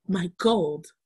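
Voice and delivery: put-on polite sick kid warning his friend off; stuffy sick boy. Josh thanking Moti for soup while keeping him away.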